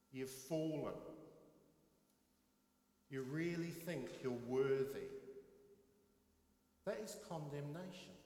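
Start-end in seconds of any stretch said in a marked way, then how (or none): 0.1-5.1 a mocking inner critic condemning the preacher; accusing inner voice. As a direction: sneer at yourself, hammering each count. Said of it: "this little voice in my head goes".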